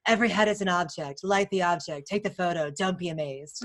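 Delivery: lightly voiced mentor, calm and matter-of-fact; a hint of the boss's dry delivery; imitation of Mary Ellen. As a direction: deliver it as flat studio wisdom, barely changing your voice. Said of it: "my imitation of her".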